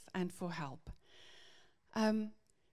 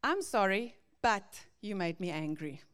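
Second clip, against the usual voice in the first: blaming apology; 3 dB louder than usual. Retold or imitated. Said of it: "But how does this sound?".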